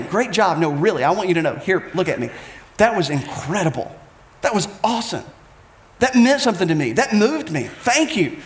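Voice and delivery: stop, look them in the eye and praise sincerely. Shown as a demonstration. Preacher showing heartfelt praise to a friend, sincere and unhurried. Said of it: "But stopping".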